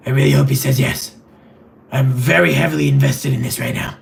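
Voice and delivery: lightly put-on gravelly Batman growl. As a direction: hold a gravelly caped crusader voice throughout. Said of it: "do a gravelly voice like this".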